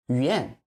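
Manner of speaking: 语言 with weight wrongly on 语; wrong stress imitated. Shown as a demonstration. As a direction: show the learner's wrong stress on 语言. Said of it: "It's not 语言".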